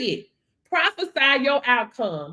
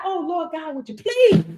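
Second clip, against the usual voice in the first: mock begging prayer. Preacher mocking believers who beg God, pleading. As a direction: whine it like a timid beggar.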